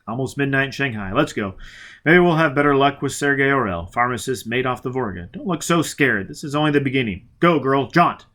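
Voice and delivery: a hard man pressing onward; clipped orders to get moving; Foyle, grim and urgent. Acted. Foyle urging Robin to jaunt, with grim resolve.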